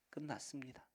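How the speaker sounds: a bare whispered 'it's over'; whispered resignation. Acted. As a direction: breathe it out, a hopeless whisper. Hopeless echo of 'it's over'.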